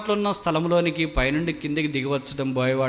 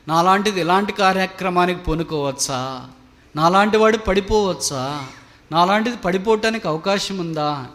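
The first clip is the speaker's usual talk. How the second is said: raised, louder rhetorical questioning; indignant disbelief; 4 semitones higher, 5 dB louder than usual. Acted. Someone fallen asking how this could happen, indignant disbelief. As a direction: protest it, pitched up and forceful. Imagined self-righteous protest of the fallen.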